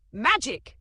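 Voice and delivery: very high, loud thrilled shriek. Acted. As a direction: squeal the word out. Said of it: "Christine shrieked".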